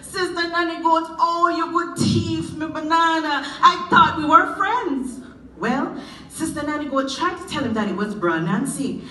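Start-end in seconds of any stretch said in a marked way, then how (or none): 0.0-5.2 grieved reproach. Acted. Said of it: "it grieved him".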